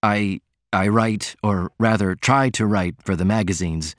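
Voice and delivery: hesitant, embarrassed admission; faltering. Acted. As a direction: stumble over the confession. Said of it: "Martin faltered".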